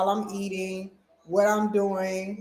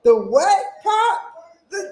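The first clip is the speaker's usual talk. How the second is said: put-on child voice; 12 semitones higher, 9 dB louder, slower than usual. Child answering grandpa.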